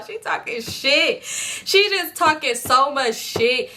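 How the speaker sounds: slow, drawn-out indignant complaint; outraged disbelief. Real, not acted. Telling friends how the diary trashed her, slow and indignant. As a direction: stretch every word in disbelief.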